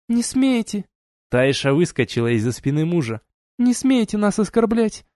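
fly at her in outrage; furious outburst. A narrator's reading. Taisha leaping out at the duchess, shouting in outrage.

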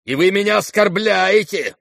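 high, drawn-out offended protest; indignant outburst. Acted. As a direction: take loud, slow offence. Offended general's outburst in story.

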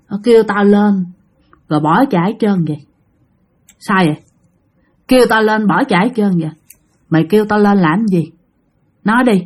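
lightly voiced low ghost; a touch of hellish menace, kept low; deep voice from hell. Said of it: "mà cái giọng trầm, trầm, trầm, giống như giọng từ địa ngục". (giọng ma hơi trầm như từ địa ngục)

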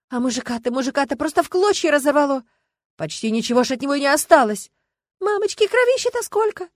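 loud, high, shocked cries; gossiping onlooker aghast at the gore; horrified exclaiming. A narrator's reading.

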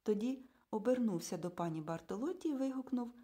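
ordinary delivery, nothing marked

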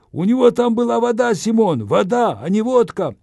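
outraged shouting, high and loud; indignant yell. Acted. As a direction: bellow it in outrage. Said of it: "возмущённо заорал". (возмущённый крик)

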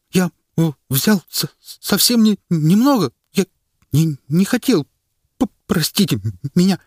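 high, loud, stuttering plea; terrified stammering. A narrator's reading. The frightened minister stammers for pardon before the crowd. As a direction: beg for mercy, teeth chattering. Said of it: "зачастил он, стуча зубами".

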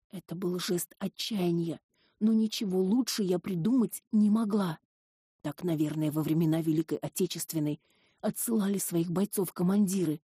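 usual speaking voice

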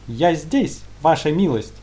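gurgling alien voice. Acted. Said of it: "пробулькал".

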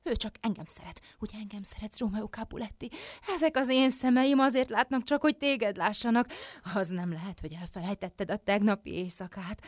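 very soft, hushed love plea; intimate pleading. Acted. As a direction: beg a lover quietly to remember. Intimate plea to remember her. (halk, bensőséges könyörgés)

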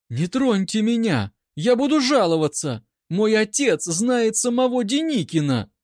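high, loud, hammed-up panic; cornered doe crying out; frantic exclaiming. A narrator's reading. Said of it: "восклицая". (высоко и громко, в театральной панике)

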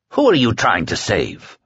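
understated stern challenge; cold, stern. Acted. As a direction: confront him coldly. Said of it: "His voice was cold and stern".

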